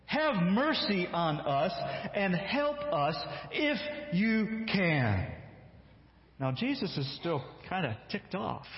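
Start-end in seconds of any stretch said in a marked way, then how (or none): 0.1-5.3 slow, higher pleading for his son; desperate plea. Acted. Father begging Jesus to heal his son, slow pleading. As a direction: beg slowly, drawing out help.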